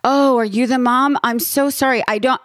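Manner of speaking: high-pitched, imitated sympathetic stranger; concerned bystander. Bystander apologizing to the worried mom, concerned.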